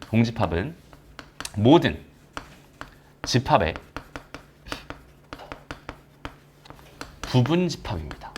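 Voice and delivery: long pauses between "공집합은", "모든", "집합의" and "부분 집합입니다"; spaced-out emphasis. Shown as a demonstration. Teacher stating the core fact about empty sets, spaced out for emphasis. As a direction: set down "모든" and "집합의" one by one, with weighty pauses.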